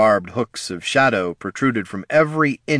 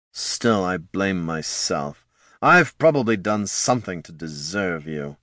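dry sarcasm. Acted. Lich sarcastic jab.

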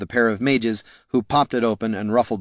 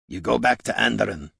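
understated dwarf snarl. Acted. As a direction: growl an order with restrained anger. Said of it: "the dwarf snarled".

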